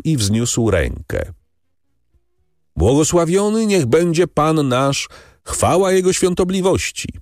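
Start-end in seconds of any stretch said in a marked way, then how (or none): 2.8-7.1 high, ringing call to the crowd; a monk announcing the pardon aloud; loud clear proclamation. A narrator's reading. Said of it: "zawołał głośno i wyraźnie".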